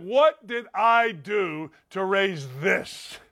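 slow, weighted disbelief, word by word; exasperated father. Retold or imitated. Father questioning himself over his crying son, slow exasperation. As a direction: draw each word out as a dismayed dad.

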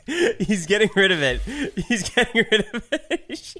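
words broken by laughter; laughing. Real, not acted. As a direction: giggle through the words. Laughing at friend's reaction.

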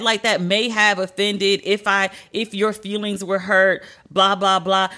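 mocking fake apology. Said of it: "Any women I may have offended".

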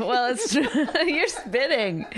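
laughing, slowed. Real, not acted. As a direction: say it through laughs. Laughing at his energy.

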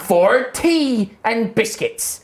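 put-on slow, cheerful old wizard; Howard's voice. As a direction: greet them like a jolly wizard. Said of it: "Howard's voice".

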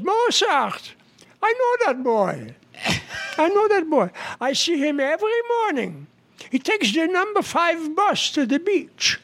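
high, gushing Jewish lady; a hint of a gushing Jewish lady; Jewish accent. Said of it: "this one woman says".

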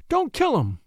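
high-pitched urgent plea; pleading. A narrator's reading. Woman begs the armed man to spare deputy, pleading. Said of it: "pleaded Missus Delancey".

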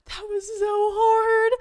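high, slow wail; tearful wail. Retold or imitated. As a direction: cry it out, exhausted. Retold tears at the bottom.

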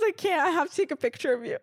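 high, giggly, barely getting it out; helpless mock laughter while teasing; imitating laughing friend. Friend wants a picture of her crying, retold through laughter. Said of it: "she just starts laughing".

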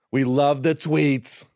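slow, drawn-out bad Trump; badly faked Trump voice; terrible Trump. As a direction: stretch it out in a half-hearted Trump impersonation. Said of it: "my terrible Trump impression".

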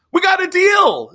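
mock the foreign minister's self-satisfied claim; mock smug boast. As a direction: podcaster mocking the Iranian minister, hammed-up smugness. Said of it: "Zarif said".

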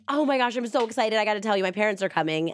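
fast, excited rush of words; wife running to tell her husband, bubbling over; bubbling with joy. Retold or imitated. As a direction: spill the news in a happy hurry. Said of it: "bubbling over with joy".

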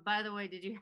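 ordinary delivery

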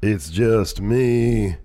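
slow, drawn-out deathly Undertaker growl; hushed funeral director. Pretend. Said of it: "hoping that Steve could wish me happy birthday, happy one in his Undertaker voice".

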